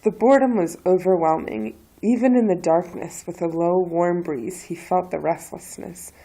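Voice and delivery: projecting story narration; reading a novel aloud. Acted. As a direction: read it out like a story to an audience. Reads a passage from a novel.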